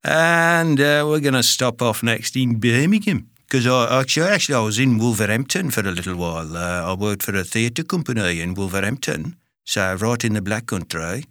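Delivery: put-on Brummie accent. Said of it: "have a stab at most British accents".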